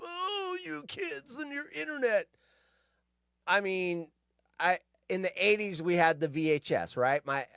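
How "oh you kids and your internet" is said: put-on grumpy old-timer. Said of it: "back when I was growing up".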